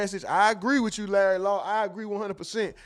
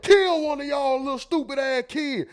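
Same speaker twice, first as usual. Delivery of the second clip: put-on high, loud furious yell at the kids; shrieking at the kids; 9 semitones higher, 4 dB louder than usual. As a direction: explode at the kids off the phone. Skit: yelling at kids mid-call.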